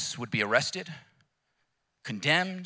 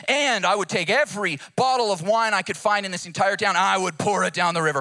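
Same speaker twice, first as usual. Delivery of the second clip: building preacher shout; 4 semitones higher, 6 dB louder than usual. Retold or imitated. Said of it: "He says".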